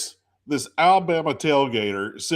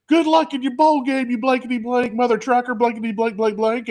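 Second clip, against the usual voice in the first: put-on drunk heckler; 8 semitones higher than usual. Fan yelling insults.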